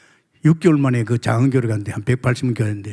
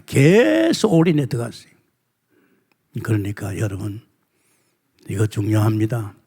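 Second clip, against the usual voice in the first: usual speaking voice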